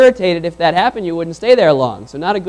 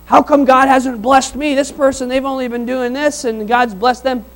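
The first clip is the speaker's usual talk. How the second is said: jealous gripe; 5 semitones higher than usual. Retold or imitated. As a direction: whine about others' blessings. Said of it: "and you know what".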